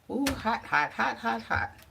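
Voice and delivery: sudden high yelps of "hot"; startled by heat. Real, not acted. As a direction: yelp as a hot jar burns you. Burning her hands on jars.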